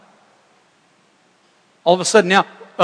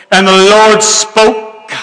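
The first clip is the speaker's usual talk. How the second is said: slow, louder, hammed-up preaching drawl; mock pulpit voice; 8 dB louder, much slower than usual. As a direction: stretch every word like a pompous preacher. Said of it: "preachers that have a preaching voice".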